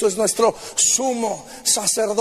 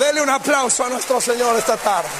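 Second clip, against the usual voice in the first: fervent preaching. Acted. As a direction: preach it with rising fire to the crowd. Rising sermon climax.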